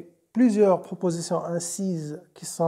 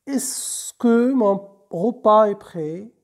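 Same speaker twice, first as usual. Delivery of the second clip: slow, pressing question, a touch louder; insistent demand; 3 semitones higher, 4 dB louder, slower than usual. Acted. Teacher reading the manager demanding his meal, insistent. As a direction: press him for the meal, slowly and firmly. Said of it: "demanda le directeur avec insistance".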